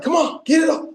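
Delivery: high mock gym-spotter cheer; urging on. Teammates urging a player to lift his envelope, high mock urging. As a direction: urge him on in a high-pitched mock strain.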